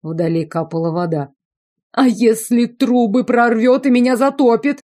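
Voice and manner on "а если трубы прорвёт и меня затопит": high, louder whining moan; moaning complaint. A narrator's reading. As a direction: moan it like a spoiled cousin. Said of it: "простонал Иоланд". (высокий ноющий стон)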